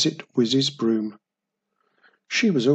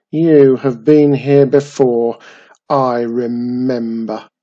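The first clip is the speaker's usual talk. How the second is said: goblin voice; 10 dB louder than usual. Acted. Goblin recalls Mum.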